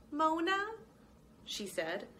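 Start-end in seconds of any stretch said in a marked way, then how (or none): 0.1-0.7 high, uncertain small mouse voice; a lost little mouse asking where she is; timid mouse. Acted. Mouse Mona asking the clerk where she is, high and timid.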